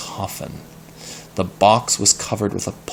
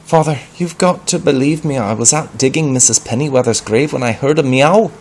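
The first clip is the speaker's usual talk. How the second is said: higher, louder breathless telling; frantic; 6 semitones higher, 5 dB louder than usual. Acted. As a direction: rush the story out in a panic. Peter frantically tells story.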